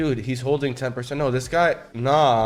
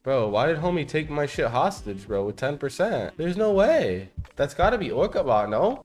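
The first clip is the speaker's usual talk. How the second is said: disbelief; 5 semitones higher, 3 dB louder than usual. Real, not acted. Coin taken hostage, disbelief.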